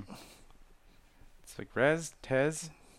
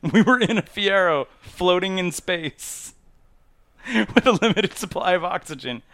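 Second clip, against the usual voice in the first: higher, emphatic mock disbelief; raised-pitch incredulous recounting; retold insistence; 6 semitones higher, 3 dB louder than usual. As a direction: lay out the absurd evidence, hammed up. Acted argument for being unkillable.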